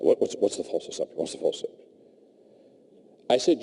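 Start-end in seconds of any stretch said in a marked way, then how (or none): 0.0-1.9 breathy hushed asking, barely voiced; whispered question. CEO whispering his worried question in a corner. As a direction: lean in and whisper it anxiously.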